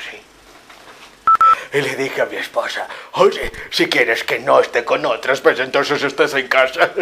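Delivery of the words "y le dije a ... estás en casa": booming boastful storytelling; loud bragging. Acted. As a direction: brag loudly to the room.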